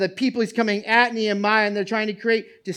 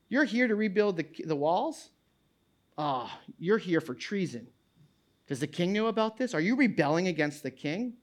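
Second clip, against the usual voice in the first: softer, sneering and insinuating; suspicious naysayer; 5 dB quieter than usual. Pretend. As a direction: plant doubt like a sly accuser. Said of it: "these naysayers attack".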